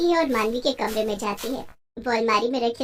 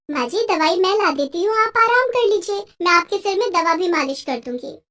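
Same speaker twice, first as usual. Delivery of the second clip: eager daughter-in-law; 3 semitones higher than usual. Acted. Daughter-in-law offers help.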